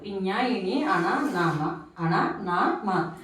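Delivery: జ్ఞ, న, మ sounded through the nose; nasal consonants. Shown as a demonstration. Teacher listing nose-made letters, nasal జ్ఞ, న, మ. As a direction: let జ్ఞ, న, మ resonate in the nose, one by one. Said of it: "ముక్కు సాయంతో పలికే అక్షరాలు".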